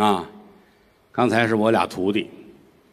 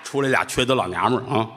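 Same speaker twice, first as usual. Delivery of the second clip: nun repeating the insult. Acted. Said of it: "什么话呀？".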